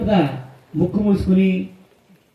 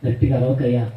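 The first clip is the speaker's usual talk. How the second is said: lower, hushed pleading wife's voice; 3 semitones lower than usual. Retold or imitated. Wife pleading with drunk husband. (భర్తను వేడుకునే భార్య, మెల్లగా)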